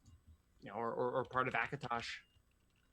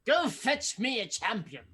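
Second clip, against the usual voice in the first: demanding Daedric prince; 9 semitones higher, 4 dB louder than usual. Retold or imitated. Voicing Clavicus Vile's demand.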